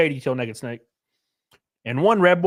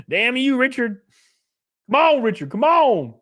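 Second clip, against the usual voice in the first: higher, mock-wounded complaint at Richard; playful protest; 7 semitones higher, 3 dB louder than usual. Real, not acted. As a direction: whine come on at the teasing chatter.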